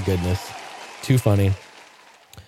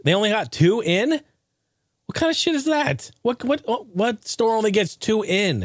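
indignant disbelief; 9 semitones higher than usual. Real, not acted. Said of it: "I'm gonna pause that".

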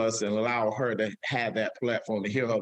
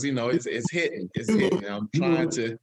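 fighting back tears as it hits; voice breaking with emotion. Real, not acted. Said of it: "I can't break down right now".

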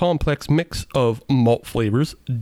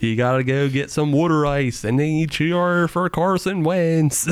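put-on Philly accent; 3 semitones higher than usual. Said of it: "this is the Philly accent".

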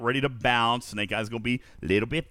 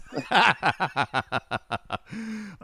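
helpless laughing at a joke; 7 semitones higher than usual. Real, not acted. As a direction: burst out in a rolling cackle. Reacts to a chat joke.

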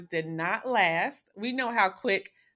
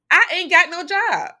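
high, loud exclamation; panicked outburst; 8 semitones higher, 9 dB louder than usual. Retold or imitated. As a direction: blurt it out loud, pitched way up. Reliving panic over losing job.

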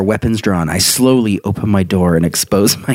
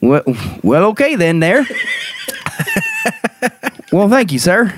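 Southern hick voice; 11 semitones higher than usual. Retold or imitated. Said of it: "like a Southern hick".

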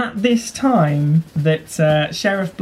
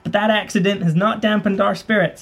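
public speech voice; 4 semitones higher than usual. Acted. GM voices mayor giving speech.

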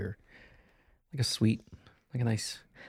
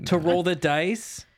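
mock gambler drawl; 7 semitones higher, 4 dB louder, slower than usual. Teasing a gambler, drawn out.

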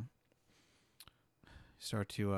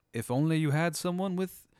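high, slow mocking voice; drawn out, teasing the king; taunting soldier voice; 8 semitones higher than usual. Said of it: "one of 'em goes".

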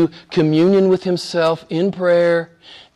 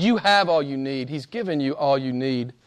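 soft refrain; 4 semitones lower, 7 dB quieter than usual. Real, not acted. Refrain repeated, now quiet.

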